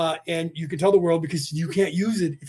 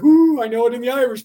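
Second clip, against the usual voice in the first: excited; 5 semitones higher, 6 dB louder, faster than usual. Retold or imitated. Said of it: "and I was like".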